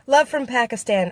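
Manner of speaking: ordinary delivery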